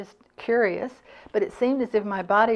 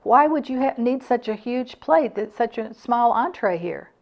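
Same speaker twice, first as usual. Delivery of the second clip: louder and higher, indignant; irritable complaint; 4 semitones higher, 5 dB louder than usual. Retold or imitated. To the server about the huge plate, irritably louder. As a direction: push the complaint up and out. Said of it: "I said the same to her".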